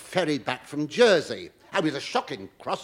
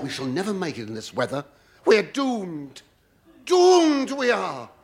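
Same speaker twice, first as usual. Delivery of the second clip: mock doom; 3 semitones higher, 3 dB louder than usual. Comic quoting his own fearful thought on the boat, mock doom wail. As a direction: wail the doom like a ham actor.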